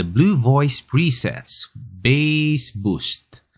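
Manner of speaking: slow, drawn-out bass-boost demo. Shown as a demonstration. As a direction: draw the words out for a mic test. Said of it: "next naman yung bass". (mabagal na boses na may bass boost)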